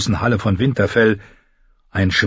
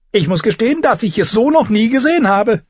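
amused Tyrion; 13 semitones higher, 3 dB louder than usual. A narrator's reading.

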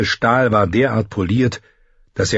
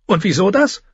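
Tyrion, irritated; 10 semitones higher than usual. A narrator's reading. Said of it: "warf ihm einen bösen Blick zu".

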